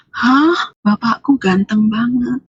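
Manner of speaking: drawn-out mock cry of amazement; retold amazed cry. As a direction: gasp "hah", then draw the words out slowly. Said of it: "Begitu saya teriak".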